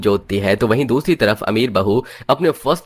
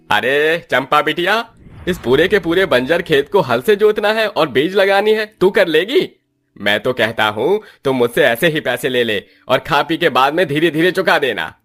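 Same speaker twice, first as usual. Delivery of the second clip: put-on an elderly uncle gently offering a loan; kindly old village uncle; 6 semitones higher than usual.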